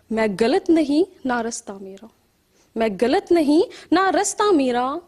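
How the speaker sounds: questioning verse, lifted openings and sinking refrains; poetry recital. Acted. Poet who cannot write or speak her thoughts, searching poetry recital. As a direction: recite in measured, swinging lines. Recites second poem after introducing it.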